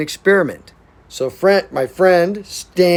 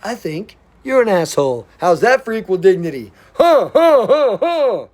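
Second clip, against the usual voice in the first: mocking retort with laugh; 5 semitones higher than usual. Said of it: "And I'll be like".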